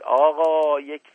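high, urgent cry for help; shouted plea. A narrator's reading. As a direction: call out in agitation, pleading for action. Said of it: "رو به دایجان کرد و فریاد زد".

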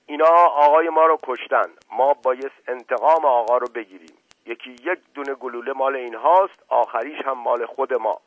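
loud, forceful outburst; vengeful shouting. A narrator's reading. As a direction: shout a vow of revenge. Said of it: "فریاد زد".

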